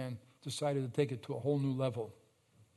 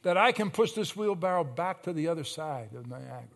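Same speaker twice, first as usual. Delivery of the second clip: raised, projected storyteller's yell; retold yell; 3 semitones higher, 6 dB louder than usual. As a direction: yell it back at the crowd, easing at the end. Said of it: "he yells back at them".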